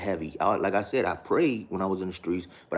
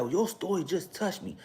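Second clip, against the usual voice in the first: much higher mock pastor voice; imitating father-in-law; 10 semitones higher than usual. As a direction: pitch way up to mimic him. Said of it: "This is how her father talked".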